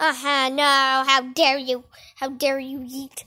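lightly voiced low villain, mock indignant; scolding villain. Captain rebuking Yeet, low and mock indignant.

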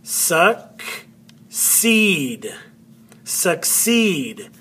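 succeed sounded out, weight on CEED; stress on second syllable. Shown as a demonstration. Teacher sounding out the word for students, second syllable stressed. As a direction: break succeed apart, then stress CEED. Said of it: "that is where the accent is".

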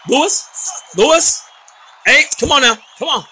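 high yelled name; calling out. Real, not acted. Player calling the downed fighter, high shout. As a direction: shout the name across the ring.

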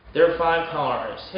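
"There are five cars." as "there five cars"; "There are five cars." with "are" swallowed; second R dropped. Shown as a demonstration. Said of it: "R을 한 것처럼 들리는".

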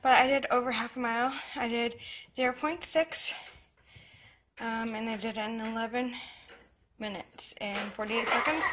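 winded after a workout; out of breath. Real, not acted. Runner reporting half a mile to viewers, out of breath. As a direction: talk while catching your breath. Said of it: "so sorry I'm out of breath".

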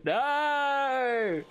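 long high-pitched "no"; protest. Real, not acted. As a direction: wail it out in protest. Drawn-out protest in game.

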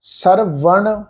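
ਸਰਵਣ drawn out very slowly, each syllable apart; slow syllable reading. Shown as a demonstration. Teacher to students, sounding out ਸਰਵਣ slowly. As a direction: spell out ਸਰਵਣ slowly, one sound at a time. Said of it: "ਹੁਣ ਇਹਦਾ ਉਚਾਰਨ".

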